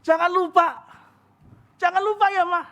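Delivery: repeating the reminder, pressing harder each time; a husband nagging his wife not to forget; insistent reminder. Retold or imitated. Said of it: "Saya ngomong sampai tiga kali". (mengingatkan berulang-ulang dengan ngotot)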